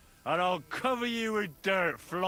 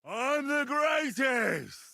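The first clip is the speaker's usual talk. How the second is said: put-on drunken shout; 4 semitones higher, much slower than usual. Drunk boast before a fall.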